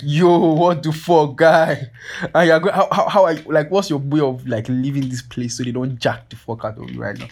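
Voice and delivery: high, loud disbelief, easing toward the end; amazed outburst. Retold or imitated. Photographer gawking at another guy's pricey gear, amazed.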